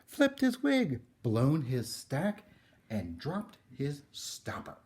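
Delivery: shocked neighbours cluck about the crazy man; scandalised neighbours. Acted. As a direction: neighbours scandalised by the painted house, high and loud. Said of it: "The people said".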